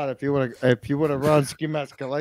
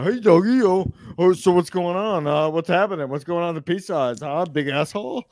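mock patter, pitched up; imitating rapid-fire greeting patter; 3 semitones higher, 5 dB louder than usual. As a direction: act out someone's excited run-on greeting. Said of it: "was the same way I speak".

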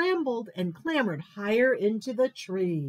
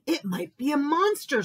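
a touch of a high mouse squeak; lightly voiced little mouse; 6 semitones higher than usual. A narrator's reading. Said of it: "squeaked Mo-, Mouse".

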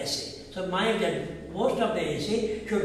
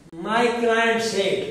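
slow dictation; 3 semitones higher, much slower than usual. Shown as a demonstration. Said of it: "For example".

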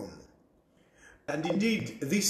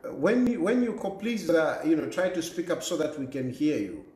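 to someone hard of hearing; 3 semitones higher than usual. Real, not acted. Host urges callers to speak up.

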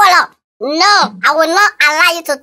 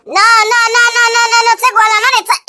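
urgent protest; 6 semitones higher, faster than usual. Acted. Stopping the fight.

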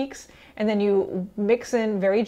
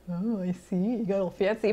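mock impressed; 4 dB quieter than usual. People reacting to traditional Italian cookies, mock impressed. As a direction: put on a lightly teasing, impressed reaction. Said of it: "people will be like".

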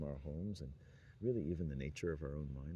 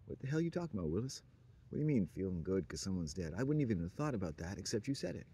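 indignant objection; 2 semitones higher, 3 dB louder than usual. Retold or imitated. An offended Sunday school listener, objecting indignantly. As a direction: snap it back as if you can't believe what you heard. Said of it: "you might say".

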